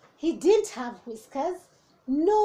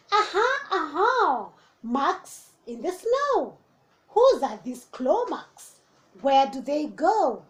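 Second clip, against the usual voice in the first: excited discovery; 3 dB louder than usual. Acted. Child finds claw marks.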